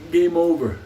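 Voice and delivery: loud closing call; emphatic. Real, not acted. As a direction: slam it down like a verdict. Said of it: "So relax".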